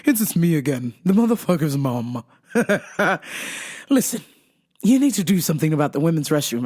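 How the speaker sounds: a hint of a grand old dame calling me darling; posh client voice. To the vitamin seller, a touch of a posh lady. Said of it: "she comes up to me and she goes".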